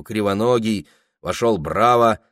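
ordinary delivery

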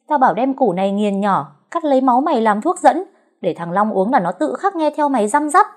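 giọng cao, lớn, the thé. A narrator's reading. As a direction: voice a shrill scheming old woman. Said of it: "thì nghe tiếng nói the thé". (giọng the thé của bà Tư)

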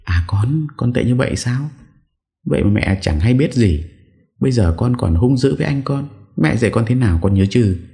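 high-pitched, lightly acted maternal wail; tearful scolding. A narrator's reading. Mother panicking at her son's aggression, tearful scolding. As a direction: scold your son in a high, lamenting voice. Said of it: "vừa khóc bù lu bù loa".

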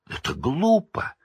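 sharp high cry of protest; shout. A narrator's reading. Harry shouting at Snape, high indignant cry. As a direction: yell it at him, pleading. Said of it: "закричал Гарри".

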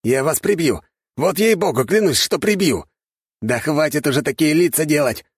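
a hint of a fed-up brother threatening; Slavik scolding. A narrator's reading. Brother scolding his giggling siblings, mock anger. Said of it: "ругался Славик".

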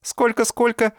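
high, mocking echo. A narrator's reading. Dinka mockingly asks the professor to repeat. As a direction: sneer the question back. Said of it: "насмешливо переспросила Динка".

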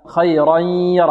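"خيرا يره" with the n merged into a held nasal y; slow recited "خيرا يره", nasal glide between the words; merged tanween. Shown as a demonstration. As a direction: blend "خيرا" into "يره" with a hum. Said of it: "أدغمنا التنوين في".

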